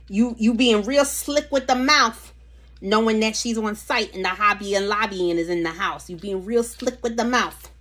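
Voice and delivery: half-joking scold with some attitude; playful Italian scolding. Pretend. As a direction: tease them like a sassy aunt. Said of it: "That was Italian".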